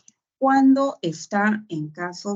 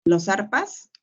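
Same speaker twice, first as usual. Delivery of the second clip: "los arpas" asked with a rising, testing tune; doubtful wrong guess. Shown as a demonstration. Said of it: "No, dirás las". (pregunta dudosa, tono ascendente)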